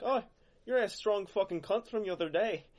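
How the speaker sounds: high, rowdy bar shout; drunk Irish fan. Retold or imitated. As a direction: hail him like a drunk mate. Drunk Irishmen hailing him.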